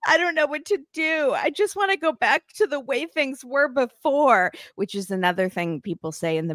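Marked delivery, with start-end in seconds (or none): 0.1-4.5 quoting him. Retold or imitated. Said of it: "And he's like".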